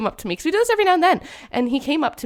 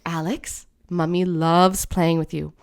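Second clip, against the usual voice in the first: put-on gentle mom to child; 4 semitones lower, slower than usual. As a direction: ease it out calmly like soothing a small boy. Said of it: "And I'm like".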